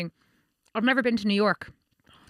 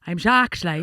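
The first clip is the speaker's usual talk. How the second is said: put-on Limerick accent retry; 6 semitones lower, much slower than usual. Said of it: "it's more Limerick musician vibes".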